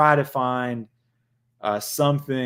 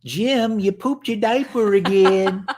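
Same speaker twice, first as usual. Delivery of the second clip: higher, slow put-on caretaker voice breaking into laughter; laughing mock nurse; 7 semitones higher, 4 dB louder, slower than usual. Host teases Jim about diapers, laughing caretaker voice. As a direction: scold like a nurse while cracking up. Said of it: "teasing Jim as old".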